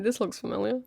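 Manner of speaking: lightly jokey, softly said; mildly teasing, understated. Acted. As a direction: toss it off as a soft half-joke. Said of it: "I'd start off with a jokey tone".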